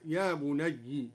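يا بني said slowly as ya bunayyi; slow, بني ending in kasra; kasra reading. Shown as a demonstration. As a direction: say يا بني with a short i at the end. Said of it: "هكذا".

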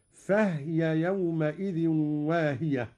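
فهي recited fahya, ha unvowelled; silenced ha. Shown as a demonstration. Teacher demonstrating Qalun's reading: فهي with silent ha. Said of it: "بإسكان الهاء أيضًا".

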